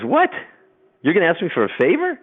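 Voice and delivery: high incredulous frog; surprised frog. Acted. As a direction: frog in disbelief at the favor. Frog voiced in fable.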